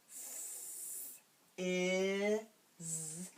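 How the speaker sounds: "f-" hissed apart from "is"; segmented sounds. Shown as a demonstration. Teacher says the sounds of "fizz" one at a time. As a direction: split "fizz" into "f-" then "is". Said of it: "I will say the sounds".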